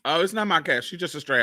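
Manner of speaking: ordinary delivery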